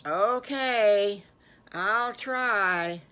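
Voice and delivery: the wanderer pig agreeing grudgingly; reluctant child. Acted. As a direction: shrug it off like a kid. Wanderer half-promises.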